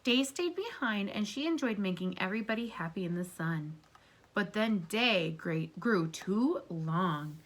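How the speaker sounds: gentle read-aloud to a class; storybook reading. Acted. Teacher reading a story aloud to her class, gently. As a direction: read it like a picture book for kids. Reads picture book to class.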